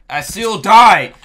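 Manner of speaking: said again after dying, now a slow loud outraged yell; outraged shout. Real, not acted. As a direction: yell it, stretched out in disbelief.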